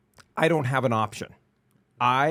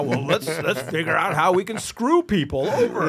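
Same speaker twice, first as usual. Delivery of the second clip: loud, higher-pitched hammed-up plotting; raised, louder mock brainstorming voice; mock scheming lawmakers; 7 semitones higher, 8 dB louder than usual. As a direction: act out officials cooking up mischief. Acting out bored lawmakers scheming.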